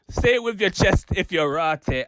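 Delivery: light Brummie recital; mild put-on Brummie bar; Brum accent. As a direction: carry the Birmingham accent through the rhyme. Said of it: "the Brum accent".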